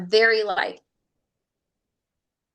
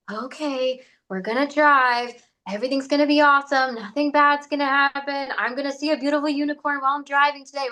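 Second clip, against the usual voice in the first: higher, quick forced cheer; forced positivity; 4 semitones higher than usual. Retold or imitated. Imitating a nervous driver forcing cheerful self-talk. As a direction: pump yourself up unconvincingly. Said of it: "you start doing this".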